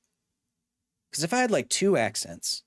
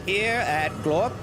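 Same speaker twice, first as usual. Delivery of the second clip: lightly hammed-up ad pitch, a touch higher; mock salesman pitch; 3 semitones higher than usual. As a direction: sell the glorping line like a cheesy ad.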